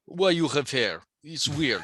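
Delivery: puzzled mock Russian questioner; Russian accent. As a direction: object in stereotypical Russian English. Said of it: "hairy Russians".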